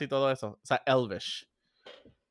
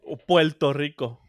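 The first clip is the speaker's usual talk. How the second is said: slowed, teasing "Puerto Rico" said as "Puelto Rico"; lightly mock the Puerto Rican L in "Puerto Rico"; mock Puerto Rican accent; 2 semitones lower than usual. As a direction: burla suave del acento boricua: "Puelto Rico". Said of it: "todos los países tienen acento".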